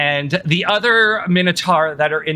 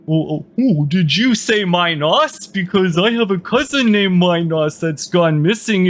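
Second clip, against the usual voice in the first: slightly raised, rambling hopeful voice; eager captive Minotaur; 2 semitones higher than usual. Acted. Captive asks about his missing cousin, eagerly. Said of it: "one of them will be".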